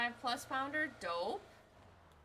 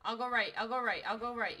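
loud callout; 6 dB louder than usual. Real, not acted. Calling out movement.

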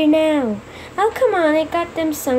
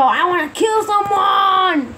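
slow, drawn-out mock rage; acted angry outburst; 3 semitones higher than usual. Fed-up character ranting, drawn-out angry yell. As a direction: stretch the rant into a yell.

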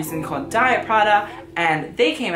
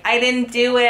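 mock denial; 7 semitones higher, 5 dB louder than usual. The photographer's denial, mocked.

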